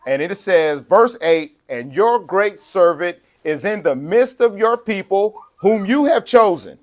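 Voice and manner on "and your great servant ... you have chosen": slow, raised pulpit reading; scripture reading. Acted. Preacher reads verse eight to congregation, slow scripture reading. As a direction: lift the verse high and measured.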